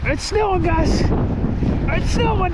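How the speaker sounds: high, slow, drawn-out marvel; excited wonder. Real, not acted. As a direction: stretch it out in awe. Marvels at falling snow.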